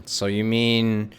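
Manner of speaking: normal talking voice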